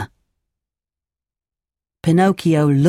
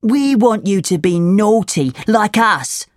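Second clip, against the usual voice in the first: put-on higher, taunting boy voice; schoolboy, goading; 5 semitones higher than usual. A narrator's reading. Boy urges Pinocchio to misbehave, higher goading voice. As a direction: egg him on, pitched up.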